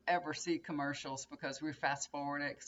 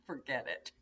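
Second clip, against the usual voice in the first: laughing; 3 semitones lower than usual. Real, not acted. Laughing at husband's confusion.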